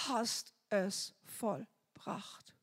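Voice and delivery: slow, soft whisper; slow reverent whisper. Retold or imitated. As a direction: breathe it out slowly in awe. Whispered prayer quote.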